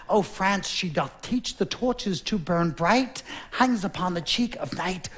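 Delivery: slow swooning poetic sigh; lovesick king. Acted. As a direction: moon over her like a lovestruck king. Lovesick king quoting poetry.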